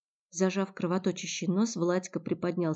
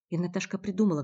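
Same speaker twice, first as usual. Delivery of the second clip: usual speaking voice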